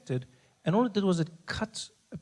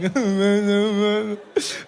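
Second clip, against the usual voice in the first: loud laugh; 6 semitones higher, 5 dB louder than usual. Real, not acted. Laughs at himself.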